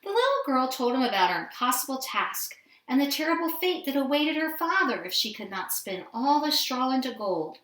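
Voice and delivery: ordinary delivery, nothing marked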